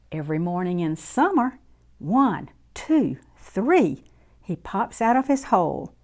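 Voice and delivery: lively storybook voice for little ones; reading to children. A narrator's reading. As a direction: read it warmly to a circle of kids. Reads picture book to children.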